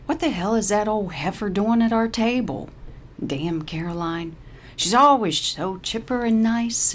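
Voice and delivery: a lightly voiced irritated old woman; grumbling. Paralee complains about Caroline, lightly irritated. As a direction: mutter your resentment.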